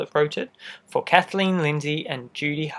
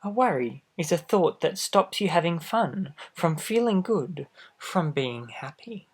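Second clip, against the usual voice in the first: lively storybook read-aloud; reading to children; 3 semitones higher, slower than usual. A narrator's reading. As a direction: read it out to little listeners. Reads picture book aloud.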